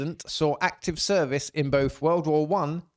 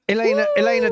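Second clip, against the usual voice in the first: calling out; 7 dB louder, faster than usual. Real, not acted. Calling out to muted co-host.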